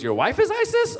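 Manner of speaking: put-on very high squeaky little boy question; incredulous kid. Boy asking the comic about his wife, squeaking in disbelief. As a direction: squeal it like a stunned child. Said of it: "He goes".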